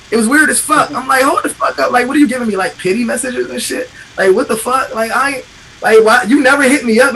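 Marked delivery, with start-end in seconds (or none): 1.2-7.1 higher-pitched, incredulous challenge; retold indignation. Reacting to friends' sudden pity texts, indignant protest. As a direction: push back in indignant disbelief.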